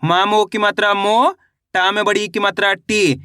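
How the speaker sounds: long rising "मो", then falling "टी"; measured syllable-joining demonstration, "मो" up, "टी" down; spelling drill. Shown as a demonstration. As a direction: chant each letter with its vowel sign, lifting "मो" and dropping "टी". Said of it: "ओ का उच्चारण जोड़ देंगे".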